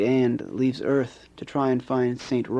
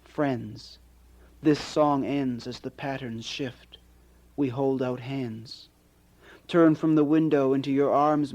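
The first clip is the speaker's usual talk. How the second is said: poetry reading. Acted. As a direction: read it like a poet sharing his own verse. Poet reads his poem aloud.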